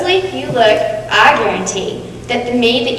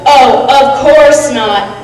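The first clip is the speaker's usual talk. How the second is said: faux-polite reply; 4 dB louder, much slower than usual. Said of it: "I try to be polite, so I reply with".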